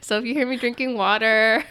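stuffy nose, laughing lightly; congested. Real, not acted. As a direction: talk through a blocked nose. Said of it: "I'm a little congested".

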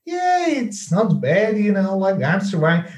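imitating a mock pessimistic reply; reluctant melody. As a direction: shrug it off as if barely surviving. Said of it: "even in the tone of your voice and the melody".

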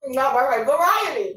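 talking through a mouthful of food; words round a bite; mouth full. Real, not acted. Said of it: "but my mouth is full".

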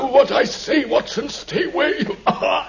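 feverish command. Acted. Holmes ordering Watson off.

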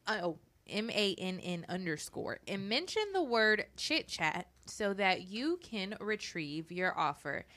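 polished, professional ad read; sponsor voice. Real, not acted. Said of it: "I gotta get my sponsor voice like you. You are so professional".

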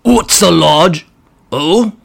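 a nervous goblin pleading with the boss; grot voice. Acted.

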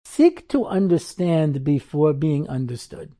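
slowly, weighing each word; the punchline maxim, drawn out slowly; slow and deliberate. Shown as a demonstration. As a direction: say it like a lesson to remember. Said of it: "And I said".

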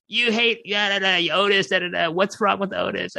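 high-pitched whiny mimicry; mock outraged fans. Host mimicking fans who defend Otis, mock outrage. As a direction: imitate indignant fans in a high voice.

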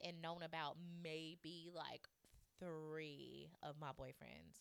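hushed, slow confiding whisper; whispering a confession slowly. Real, not acted. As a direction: drop to a slow secretive whisper. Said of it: "drops to whisper mid confession".

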